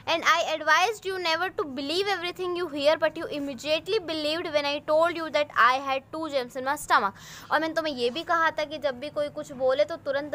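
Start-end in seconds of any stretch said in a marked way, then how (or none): 0.0-7.1 put-on slow, clear English read-aloud for young pupils; teacher reading the story aloud slowly; slow storybook reading. A narrator's reading. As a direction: read each word out slowly for the class.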